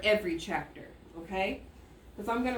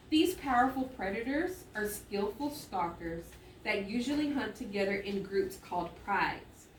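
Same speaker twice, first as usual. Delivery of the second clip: reading aloud. Shown as a demonstration. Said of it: "watch me as I read".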